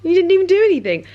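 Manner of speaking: sympathetic dog talk. Retold or imitated. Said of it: "I was like".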